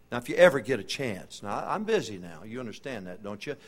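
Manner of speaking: a hint of a brushed-off, hurried witness who keeps putting it off; lightly voiced busy man, dismissive and distracted; mock busy Christian. Preacher mocking a lazy believer, offhand and dismissive.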